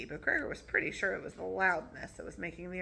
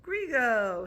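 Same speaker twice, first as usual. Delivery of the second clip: loud, higher, drawn-out call; excited greeting; 4 semitones higher, 10 dB louder than usual. A narrator's reading. Boots calling to Gregor for a hug, excited. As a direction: squeal the name like a happy little child.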